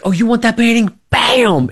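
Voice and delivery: hammed-up dad snapping back; mock dad retort. Dad mockingly offers mom the painting, high mock sarcasm. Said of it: "And he's like".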